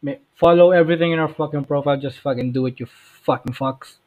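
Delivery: loud hyped-up podcast opener; loud, rowdy welcome to the listeners; shouted intro. Acted. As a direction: yell the intro like a hype man.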